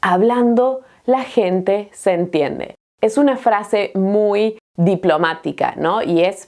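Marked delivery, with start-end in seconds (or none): 0.0-2.8 slow, clear saying; slow repeat. Shown as a demonstration. Teacher repeating the saying slowly for students. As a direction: say it slowly for learners. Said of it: "repeat of saying".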